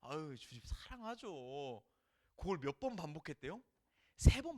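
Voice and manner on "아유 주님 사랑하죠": uncomfortable answer. Pretend. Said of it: "불편하면서 대답하는 겁니다".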